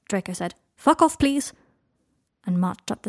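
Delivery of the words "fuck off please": high, loud, testy brush-off; irritated dismissal. A narrator's reading. Hurt Draco refusing Harry's help, irritated. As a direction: send them away crossly.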